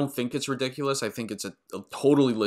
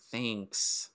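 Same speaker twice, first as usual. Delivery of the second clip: flat thanks; 7 dB quieter than usual. Retold or imitated. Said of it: "going like".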